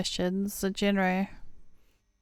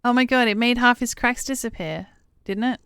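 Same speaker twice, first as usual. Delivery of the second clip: higher, louder, thrilled; delighted exclaim; 4 semitones higher, 5 dB louder than usual. Real, not acted. Player delighted the cat cheered Tony up, excited and loud. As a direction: gush over it with delight.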